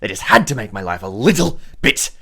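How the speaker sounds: measured gang boss. Acted. Boss orders visitors to kill goblins, deliberate and menacing. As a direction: give orders as a theatrical crime boss.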